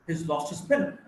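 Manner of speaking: "He's lost his pen" in native rhythm; native sentence stress. Shown as a demonstration. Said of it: "How would a native speaker pronounce this".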